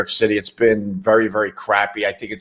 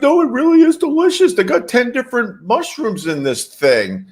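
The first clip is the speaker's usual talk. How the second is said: mock saleslady; 11 semitones higher than usual. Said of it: "She's like".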